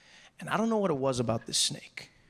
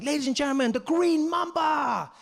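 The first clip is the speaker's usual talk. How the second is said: high, shouted showman introduction; excited announcer; 11 semitones higher, 4 dB louder than usual. Retold or imitated. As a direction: belt out the act's name, drawing it out. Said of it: "Deng Basan's really excited".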